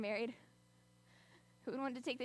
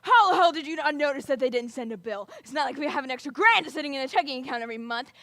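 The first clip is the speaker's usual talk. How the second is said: loud, high, escalating yelling; furious shouting; 5 semitones higher, 16 dB louder than usual. Acted. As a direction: scream at your spouse to get out. Parents' quarrel acted out.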